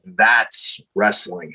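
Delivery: slow, weighty verdict with a pause; deliberate pronouncement. Retold or imitated. Trainer to winded trainee after the forearms, deliberate. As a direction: spell it out slowly, word by word.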